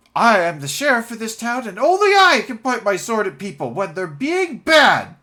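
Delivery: put-on kid's voice, very high and loud. Voicing a kid who pipes up in a tavern: child voice. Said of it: "Always sound like a child there".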